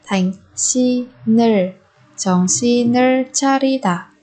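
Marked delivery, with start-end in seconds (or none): 0.6-1.7 "신을" slowly as si-neul; linked sounds. Shown as a demonstration. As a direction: carry the n of "신을" into the second syllable. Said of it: "Ở đây chúng ta nối âm".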